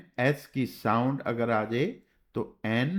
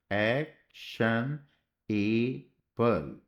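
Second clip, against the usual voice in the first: drawn out slowly; much slower than usual. Shown as a demonstration. Teacher writing एक्शन on the board, drawn out slowly. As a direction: stretch एक्शन out slowly, ending on a rise. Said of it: "तो ये शन बीच में हो गया".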